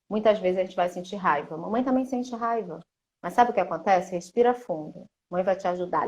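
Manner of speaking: put-on calm the child down gently; soothing mother. Shown as a demonstration.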